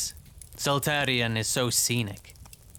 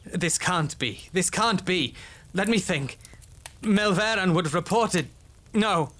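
nervous; 5 semitones higher than usual. Acted. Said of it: "He nervously ruffled his hair".

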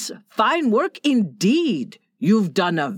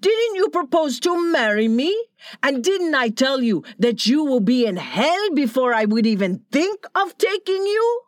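higher, scornful angry tirade; furious Donna Maria; 5 semitones higher than usual. Acted. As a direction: sentence him with contempt. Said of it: "Donna Maria condemns the captain".

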